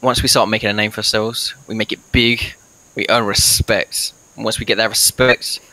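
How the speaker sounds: slow, halting in-character speech; rally the party, with long pauses; lightly voiced adventurer. Plays his character's speech to the party.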